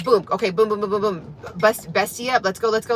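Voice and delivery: auctioneer-style hype calling. Shown as a demonstration. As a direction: rattle it off like an auctioneer. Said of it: "I literally sound like a auctioneer".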